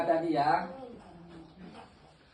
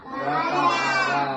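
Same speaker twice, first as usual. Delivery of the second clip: excited. Real, not acted. Teacher praises child's answer.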